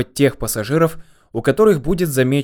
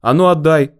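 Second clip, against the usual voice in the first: louder, higher-pitched order; loud demand; 5 semitones higher, 6 dB louder than usual. A narrator's reading. Goblin grabbing the bundle from the man, loudly demanding. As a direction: demand it forcefully.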